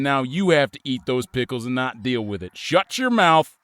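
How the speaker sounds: harsh scolding father voice; stern parent. Acted. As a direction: scold the kid like a strict dad. Stern parent berating child, improv.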